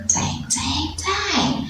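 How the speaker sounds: echoing repeat. Acted. Teacher echoing the story opening, rising each time. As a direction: let the word climb upward like an echo.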